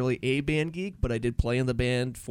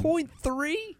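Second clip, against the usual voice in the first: incredulous. Real, not acted. Incredulous repeat.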